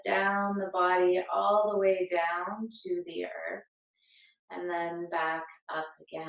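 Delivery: calm, unhurried meditation guide with long pauses; guided meditation. Acted. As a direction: lead them gently into breath and body awareness. Leads a breathing meditation.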